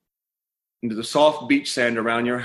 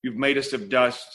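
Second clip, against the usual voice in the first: prayer; 2 semitones lower than usual. Acted.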